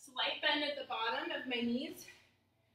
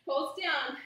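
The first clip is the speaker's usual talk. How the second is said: laughing; 5 dB louder than usual. Real, not acted. Laughing during hard pulses.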